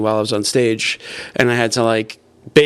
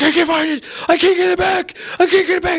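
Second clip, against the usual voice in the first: panicked wail. Retold or imitated. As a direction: wail it like everything is lost. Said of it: "And he's just freaking out".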